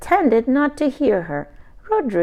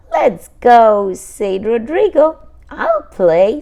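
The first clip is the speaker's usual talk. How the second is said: louder, keen reply; eager; 3 semitones higher, 9 dB louder than usual. Acted. Brothers eager to join the fort, excited. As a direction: jump at the chance.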